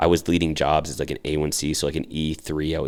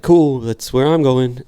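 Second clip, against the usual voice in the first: louder, higher, drawn-out 'cool'; upbeat retelling of your own snap decision; retold eagerness; 8 semitones higher, 8 dB louder, slower than usual. Retold eager decision to board the bus.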